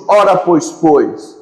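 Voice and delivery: put-on preacher slipping into a jokey Portugal Portuguese accent; mock Portuguese accent. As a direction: ham up a Lisbon accent for the congregation. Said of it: "Vou puxar meu sotaque português aqui".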